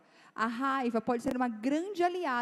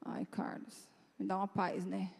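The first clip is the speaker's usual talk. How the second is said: exhausted plea; 4 semitones lower, 8 dB quieter than usual. Retold or imitated. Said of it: "Eu tô assim já".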